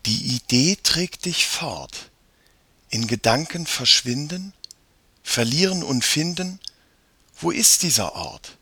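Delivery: measured, lilting verse reading; reading a poem aloud. A narrator's reading. Mia reads the mysterious poem to Jakob, measured recital. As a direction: read each line as a riddle, with pauses.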